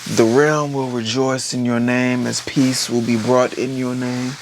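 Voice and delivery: slow, grand prince's decree, lightly done; mock royal proclamation. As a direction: proclaim it slowly like a storybook prince. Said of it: "Then he's just like".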